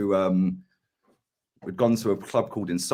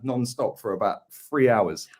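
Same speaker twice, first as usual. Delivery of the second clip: ordinary talk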